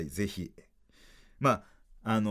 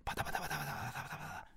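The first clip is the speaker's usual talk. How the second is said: helicopter noise; 4 semitones higher, 14 dB quieter, much faster than usual. Pretend. Imitating a helicopter overhead.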